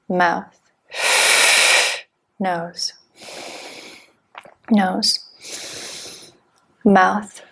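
terse, evenly spaced breathing instructions; measured meditation-teacher cueing; guided breathwork cues. Real, not acted. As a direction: count the breath in and out with single-word cues, long pauses between.

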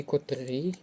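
котрий stressed on final РИЙ; stress on second syllable. Shown as a demonstration. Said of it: "наголос на другий склад".

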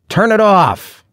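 high-pitched desperate demand; yell. A narrator's reading. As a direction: shout it after the departing captors. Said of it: "I yelled".

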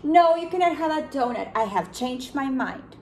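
a stern no, then settle; panda refusing. Acted. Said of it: "said the panda bear".

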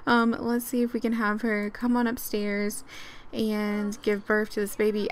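ordinary talk

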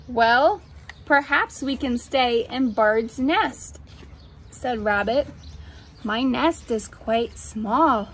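measured storybook narration; reading to children. A narrator's reading. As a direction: read it to little ones, pausing between phrases. Reads picture book aloud.

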